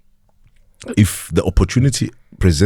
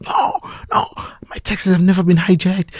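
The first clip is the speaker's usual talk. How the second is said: owner heard faintly on the phone, whispered; 12 semitones higher than usual. Retold or imitated. Owner on the phone, whispered from afar.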